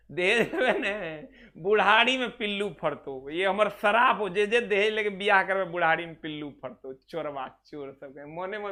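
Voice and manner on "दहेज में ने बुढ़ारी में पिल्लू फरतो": laughing through a playful curse; half-joking curse, laughing. Real, not acted. Joking curse on dowry takers. (हँसते हुए मज़ाकिया श्राप)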